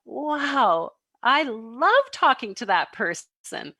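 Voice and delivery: drawn-out, mildly gushing wow; acted-out happy amazement; delighted self-talk. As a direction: savor it with a touch of delight. Enthused self-talk after great conversation.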